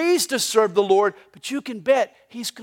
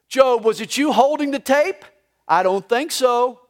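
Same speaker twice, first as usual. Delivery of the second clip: teasing, raised and louder; sarcastic; 3 semitones higher, 4 dB louder than usual. Acted. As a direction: needle him with heavy sarcasm. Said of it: "God even gets sarcastic".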